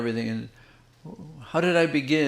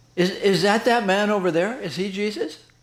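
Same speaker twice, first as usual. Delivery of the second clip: play-acted, high, bold, outspoken little girl voice; 5 semitones higher than usual. Retelling a little girl asking her grandmother in a quiet room, imitating a loud voice. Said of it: "in a quite loud voice she says".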